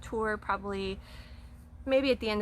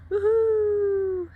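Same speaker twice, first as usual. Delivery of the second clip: loud high woohoo; excited whoop; 12 semitones higher, 8 dB louder than usual. Real, not acted. Celebrating new house.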